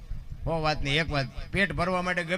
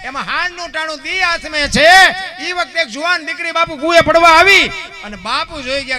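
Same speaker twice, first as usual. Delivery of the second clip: storyteller's declamation; 8 semitones higher, 10 dB louder than usual. Acted. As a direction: lift the story to a chanting climax. Storyteller rises into loud declamation.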